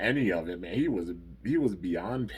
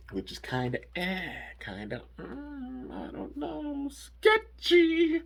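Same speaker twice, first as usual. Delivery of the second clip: sceptical; 4 dB louder, slower than usual. Real, not acted. Host doubting Faustus.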